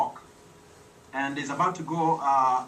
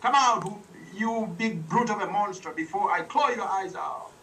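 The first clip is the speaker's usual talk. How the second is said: leopard shouting; 5 semitones higher than usual. Acted. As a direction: yell the challenge into the cave. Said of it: "shouted at the monster".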